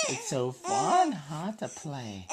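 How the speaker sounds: slow cooing. Real, not acted. Dad cooing at baby.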